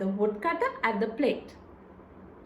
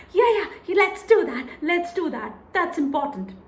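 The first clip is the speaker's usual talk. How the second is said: quick, louder agreement; hasty wife; 4 semitones higher, 4 dB louder than usual. Acted. Wife hurriedly agreeing to remove the sausage, quick and louder. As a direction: agree in a rush.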